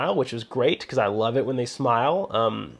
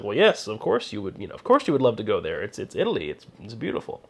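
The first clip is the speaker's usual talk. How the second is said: lower, matter-of-fact Italian pride; suddenly confident; 4 semitones lower, 4 dB quieter than usual. Retold or imitated. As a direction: answer like it's obvious, proud of his homeland. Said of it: "snapped and became very confident".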